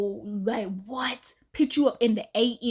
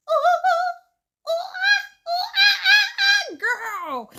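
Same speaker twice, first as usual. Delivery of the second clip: high, loud whoops breaking into laughter; whooping to test the echo, cracking up; laughing whoops; 7 dB louder, much slower than usual. Real, not acted. Testing the room's acoustics at one a.m., loud laughing whoops.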